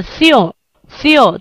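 "ción" sounded alone as the stressed beat; stressed syllable. Shown as a demonstration. Teacher isolates the stressed syllable, "ción" said on its own. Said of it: "那我们重读的时候是".

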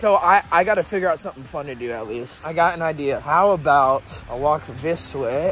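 shivering, teeth chattering; cold-stiff voice; blowing on cold hands. Real, not acted. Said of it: "I'm getting really cold and I can't talk".

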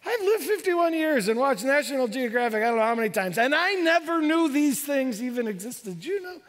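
excited marveling. Retold or imitated. Marveling at sea creatures.

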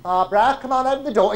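high, loud coaxing through a door; piping woman's voice. Acted. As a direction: coax her like a naughty child. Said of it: "a woman's voice piped up".

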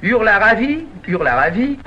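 loud, garbled magic formula; tongue-twister attempt. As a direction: push out the tongue-twister and repeat it. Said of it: "faut le dire trois fois sans respirer".

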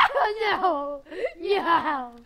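scared yell, high and loud; panicked cry. Real, not acted. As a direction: yell as the cow charges. Cow attacks him in game.

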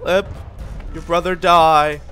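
a hint of a loud fake guard voice; lightly voiced pretend bandit telling players nobody is here; lightly voiced bandit Bob. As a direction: pretend to be the bandit, trying to sound convincing. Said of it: "This is Bob".

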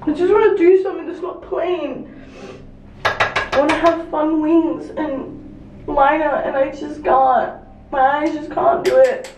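frustrated and anxious, fighting to keep it together; real distress over failed eyeliner; upset. Real, not acted. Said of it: "now I'm just freaking out".

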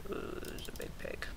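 low soft whisper. Real, not acted. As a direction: breathe the words. Same line repeated in a whisper.

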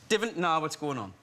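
Geordie "Divn't" with standard "going"; learned Geordie accent. Shown as a demonstration. Actor trying the phrase his mate taught him, learned Geordie accent. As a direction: say it in imitated Geordie, keeping "going" as GO-ing. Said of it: "he taught me to say".

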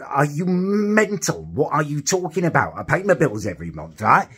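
mock disbelief at the caller; exasperated retelling of a row; retold outrage. Retold quarrel with energy company.

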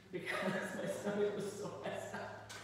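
laughing through the words. Real, not acted. Preacher recalling being sick before preaching, laughing. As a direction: chuckle at your own nerves.

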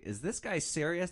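lightly voiced doubting rider; incredulous passenger. Passenger reacting to the driver's threat, incredulous. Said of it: "The guy's like".

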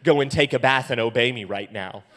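loud play-scolding dad; mock stern warning. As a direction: forbid it firmly, half in jest. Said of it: "I have to use re-, reverse psychology".

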